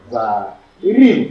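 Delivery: va, rim in two parts, weight on RIM; stress on last syllable. Shown as a demonstration. Teacher showing two-syllable accent, stress on the last. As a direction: split va, rim and stress the second. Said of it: "j'accentue la dernière".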